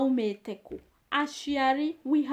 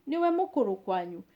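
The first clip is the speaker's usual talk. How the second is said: quick natural run; 2 semitones lower, faster than usual. Shown as a demonstration. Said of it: "fast repeat".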